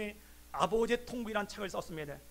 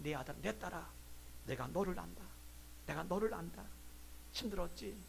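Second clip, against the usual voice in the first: tender comforting; 8 dB quieter than usual. Acted. God comforts a hurting child, tender reassurance. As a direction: speak gently, with long pauses.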